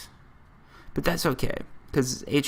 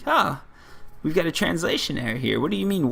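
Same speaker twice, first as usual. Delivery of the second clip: puzzled vendor, pitched up; mock confusion; 4 semitones higher than usual. Newsstand seller thinking something got lost in translation, mock confused. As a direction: imitate someone baffled by a question. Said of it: "he was confused".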